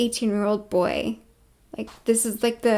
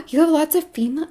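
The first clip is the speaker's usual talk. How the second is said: eager males; 4 semitones higher, 4 dB louder, much faster than usual. Acted. Acts out excited males' reply.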